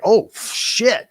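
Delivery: high, loud shocked exclamation; mock crowd amazed by the strike; crowd's shocked gasp. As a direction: blurt it like a stunned crowd. Crowd reaction imitated.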